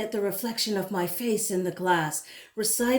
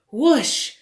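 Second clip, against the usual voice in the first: excited whoosh; 4 semitones higher, 7 dB louder than usual. A narrator's reading. Rush of words into head.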